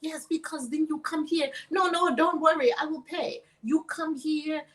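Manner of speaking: imitated Omani accent, insistent. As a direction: coax her like the Omani suitor, accent and all. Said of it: "He's saying all this in his accent from Oman".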